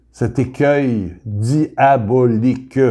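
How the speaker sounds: slow, carefully articulated phrase; careful diction. Shown as a demonstration. Preacher showing he pronounces well, slow and careful. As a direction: pronounce each syllable slowly. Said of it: "Je prononce bien".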